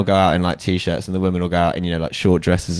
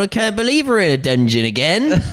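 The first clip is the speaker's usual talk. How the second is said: much higher, exasperated put-on character voice; moaning adventurer; 12 semitones higher than usual. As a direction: whine like a fed-up hero stuck in a dungeon.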